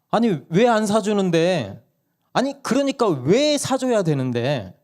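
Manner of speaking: put-on child arguing. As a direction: argue back like a stubborn little kid. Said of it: "막내가 따지는 거예요". (엄마에게 따지는 막내, 높고 느린 떼쓰는 아이 목소리)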